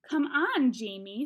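loud, exasperated burst on "Come on"; mildly angry motherly reproach; angry mom. A narrator's reading. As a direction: reprove a child, hitting the first words hard. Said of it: "said Mom angrily".

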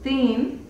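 "thin" with a rising tune; English TH sound. Shown as a demonstration. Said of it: "Por ejemplo". ("thin" con th suave y tono subiendo)

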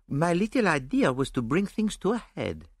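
unhurried explanation, lightly lilting; placid. A narrator's reading. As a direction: explain it calmly, untroubled. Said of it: "explained Poirot placidly".

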